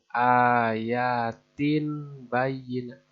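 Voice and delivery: "ayatin" with a plain n, shown as the mistake; wrong reading. Shown as a demonstration. Teacher shows learners the wrong way. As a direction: slowly say "ayatin bayinat" keeping the n. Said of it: "bukan seperti itu".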